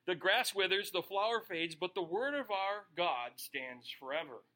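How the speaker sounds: brisk, declaiming Bible reading; steady pulpit reading of Isaiah; scripture reading. Acted. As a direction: read the passage out like a preacher.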